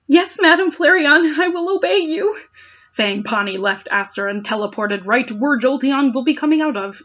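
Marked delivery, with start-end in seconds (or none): 0.1-2.4 high servant voice. Acted. Servant answering the queen.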